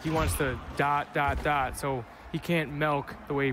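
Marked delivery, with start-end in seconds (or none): 2.7-3.2 milk said as melk; Wisconsin accent. Real, not acted. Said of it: "What was the word you just said?".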